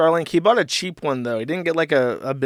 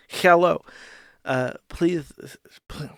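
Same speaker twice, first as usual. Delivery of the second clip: botched mock Mexican accent; 3 semitones higher, slower than usual. Shown as a demonstration. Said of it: "I can't do a racist Mexican accent".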